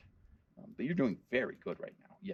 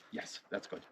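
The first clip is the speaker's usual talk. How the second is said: whispered praise; 12 dB quieter than usual. Real, not acted. Praising dog's whisper trick.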